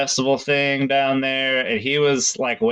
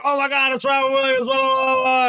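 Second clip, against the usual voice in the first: high-pitched starstruck squeal, imitated; mock an excited fan losing it, voice shooting way up; hammed-up gushing freak-out; 12 semitones higher than usual. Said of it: "she started freaking out".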